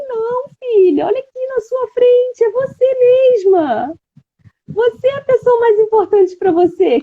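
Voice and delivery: put-on tender to child. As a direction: coax your daughter gently in the mirror. Mother retells tender talk to daughter. (voz carinhosa e aguda, falando com a filha)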